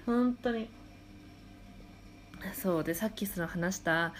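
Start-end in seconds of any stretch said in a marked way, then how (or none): 0.0-0.7 talking between sips of coffee; words around a coffee sip; while sipping a drink. Real, not acted. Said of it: "コーヒー飲みながら話すんですけど".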